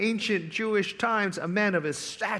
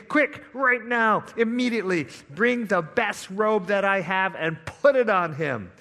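urgent command; 3 semitones higher, 3 dB louder than usual. Acted. Father commanding servants in parable.

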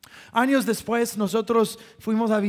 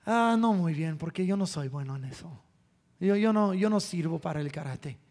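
put-on dejected boy; 4 semitones lower, 5 dB quieter than usual. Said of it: "dijo con algo de convicción".

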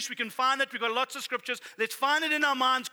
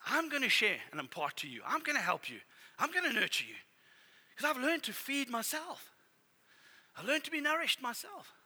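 gentle nurturing; 6 dB quieter than usual. Retold or imitated. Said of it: "Come and say".

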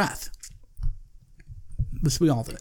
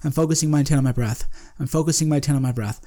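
repeated mantra; faster than usual. Shown as a demonstration. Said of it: "my mantra when I do these".

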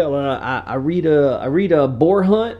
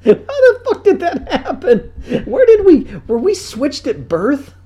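high, laughing squeals of disbelief; slowed, laughing outrage; 13 semitones higher, 5 dB louder than usual. Real, not acted. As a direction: laugh it out, much higher. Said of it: "laughing disbelief".

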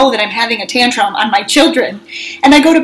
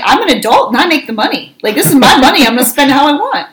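higher, punchy retort, retelling an argument; indignant comeback; 4 semitones higher, 3 dB louder than usual. Retold or imitated. Mom arguing with her kids over chips, indignant. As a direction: lay down the law to arguing kids, mildly exasperated.

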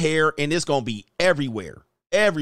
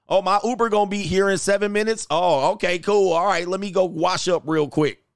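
playful role-play; 6 semitones higher than usual. Retold or imitated. Acting out woman leaving, himself.

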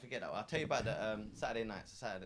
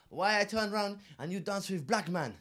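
imitating jealous passenger; 8 semitones higher, 4 dB louder, slower than usual.

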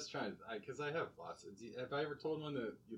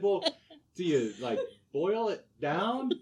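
puzzled; 8 semitones higher, 7 dB louder than usual. Retold or imitated. Own puzzled retold question.

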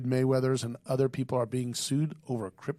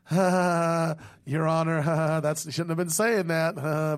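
nervous laugh; 2 semitones higher than usual. Retold or imitated. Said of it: "is the staff laughing like a nervous laugh".

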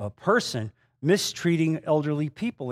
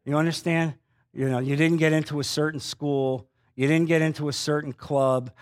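ordinary talk

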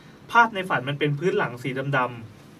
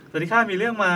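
put-on a touch higher and louder, like a young girl; girly voice for Ing; 5 semitones higher, 3 dB louder than usual. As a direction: read the listener's greeting as the girl herself. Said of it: "เอาเสียงว่าอิงค่ะ". (เสียงผู้หญิงแบบเบาๆ)

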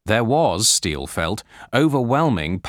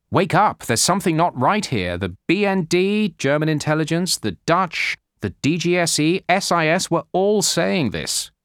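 urgent warning; 8 semitones higher than usual. Retold or imitated. A source urging sleepy US agencies to wake up, urgent. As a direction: sound the alarm, slowing on the last list. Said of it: "one Washington-based source told me".

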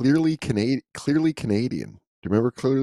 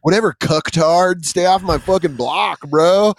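mock aggressive bro; 4 semitones higher than usual. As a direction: brush them off, then stretch the slogan. Parody aggressive American bro advert.

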